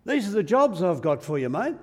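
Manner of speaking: loud, fast, matey command; brisk orders. Acted. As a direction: hand out jobs briskly and loudly. God hands Elijah his jobs.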